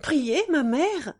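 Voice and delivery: sharp, loud, slowed incredulous echo; indignant, harsh disbelief; almost rude retort. A narrator's reading. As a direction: throw the word back at her mother. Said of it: "presque rudement".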